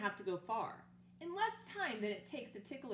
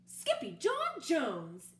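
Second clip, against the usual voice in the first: slow, louder stern call of the full name; exclaiming mother; 4 semitones higher, 7 dB louder, much slower than usual. Acted. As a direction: call your son by his full name in alarm. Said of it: "exclaimed Mama".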